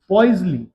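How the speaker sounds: Poiseuille said slowly as oiz-li, falling. Shown as a demonstration. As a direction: stress the name Poiseuille clearly, oiz-li. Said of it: "ध्यान रखना इसको". (Poiseuille को साफ़ बोलना)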